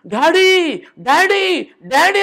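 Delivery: high desperate screams of daddy; screaming for daddy. Retold or imitated. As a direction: scream for your father in terror. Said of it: "అని కేకలేస్తుందట". (నాన్నను పిలుస్తూ భయంతో కేకలు)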